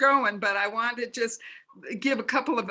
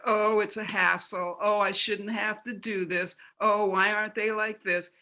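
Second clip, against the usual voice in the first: whiny complaint. Shown as a demonstration. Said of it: "not like".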